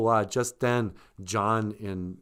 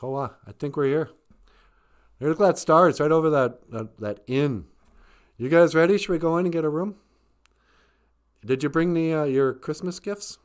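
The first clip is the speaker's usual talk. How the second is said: excited wise man; 6 semitones higher, 6 dB louder, faster than usual. Retold or imitated. Wise men arrive excitedly.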